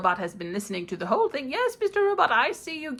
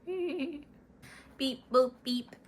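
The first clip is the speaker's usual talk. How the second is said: robot beeps; 6 semitones higher, 4 dB quieter, much slower than usual. Acted. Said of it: "He's such a chatterbox".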